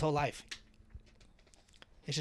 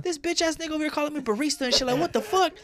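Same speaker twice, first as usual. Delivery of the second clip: much higher and louder, outraged complaint; indignant; 12 semitones higher, 7 dB louder than usual. Retold or imitated. Complaining to the boss about the customer, indignant and loud. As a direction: point at him, fuming.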